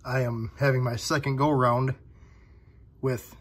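sick with flu. Real, not acted. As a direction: talk through a bad cold. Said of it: "if I sound under the weather".

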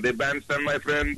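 hammed-up foreign bandstand host; bandstand announcer. Bandstand bit in alternating voices.

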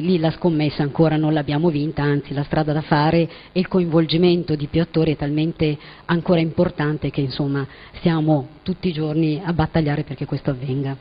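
hoarse, strained voice; talking through a failing voice; voice giving out. Real, not acted. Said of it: "Scusate la voce".

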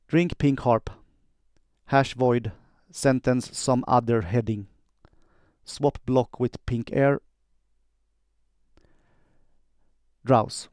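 slow, clear spoken computer commands. Shown as a demonstration. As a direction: enunciate commands for the recognizer. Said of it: "quick demo of how I do dictation".

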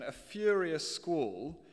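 A furious squall drawn out slow and loud; slow loud reading. Shown as a demonstration. Preacher showing the verse wording to the congregation, slow and loud. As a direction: read "A furious squall," slowly, leaning on each word. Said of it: "let me just show you that".

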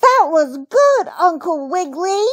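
put-on high, cheering child-bunny voice; delighted cry. A narrator's reading. Baby Bunty praising uncle's jump, high and delighted. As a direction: praise him in an excited small-girl pitch. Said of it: "cried Baby Bunty".

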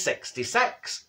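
slow, low number call; measured, stretched bingo call; bingo caller. Acted. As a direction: draw out the number deliberately.

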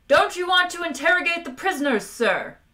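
high, loud indignant squeal; frustrated squeal. A narrator's reading. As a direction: squeal it out at a superior officer. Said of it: "he squealed".

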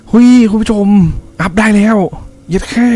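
high, thrilled outburst to viewers; delighted shout of success; real excitement. Real, not acted. Upgrade finally succeeds.

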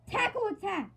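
high, loud hammed-up battle shout; battle cry. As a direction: yell the attack name like an anime hero. Battle cry voicing the attack.

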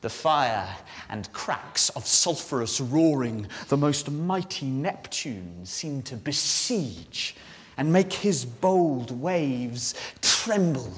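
loud high bursts, hushing and slowing between; Ariel, giving the whole ship. Acted. Ariel running round a huge ship in the storm, exhilarated. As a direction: build big, stretch the final words into a cry. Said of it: "give us a sense of the whole ship".

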